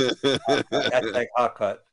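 very slow, laughing through it. Real, not acted. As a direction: chuckle out the slogan slowly. Repeats slogan laughing.

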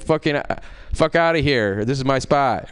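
half-yell it like an angry retelling; retold scream. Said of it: "I'm screaming at the fucking guy".

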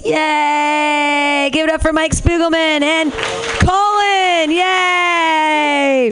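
rally the crowd; cheering. Real, not acted. Host cheering the act.

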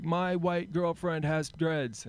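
slow, pointed bro voice; mock white dude, slow; angry dude bubble. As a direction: drawl it out like a smug dude. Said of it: "speech bubble that's like".

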